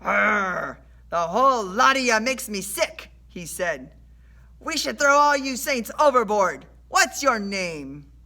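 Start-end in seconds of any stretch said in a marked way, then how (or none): 0.0-3.1 loud, raised pirate-like sailor voice; sailor's shout. A narrator's reading. Sailor berates a seasick passenger, shouting. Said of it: "shouted directly into my face". 4.6-8.1 loud, raised, bullying sailor voice; sailor's shout. A narrator's reading. Sailor threatens the saints overboard, shouting. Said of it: "shouted directly into my face".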